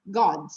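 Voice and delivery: "God" with a round open O, "Gód"; wrongly rounded vowel in "God"; mistaken O in "God". Shown as a demonstration. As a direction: say "God" as a Portuguese reader would, with an O. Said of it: "a gente pensa que a pronúncia é".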